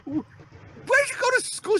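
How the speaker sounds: slow, very high-pitched imitation; mocking wife voice. Wife questioning husband's driving, high mocking imitation. Mimicking wife's scolding.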